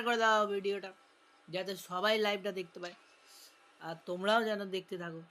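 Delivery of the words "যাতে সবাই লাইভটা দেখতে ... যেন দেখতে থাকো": talking while chewing; eating muri. Real, not acted. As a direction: mouth full. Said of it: "আমি মুড়ি খেতে খেতে কথা বলছি".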